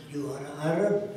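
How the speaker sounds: imitating a Middle Eastern accent, questioning rise; Arab man's accent. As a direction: mimic the Arab head guy's accent. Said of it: "That's the way he spoke".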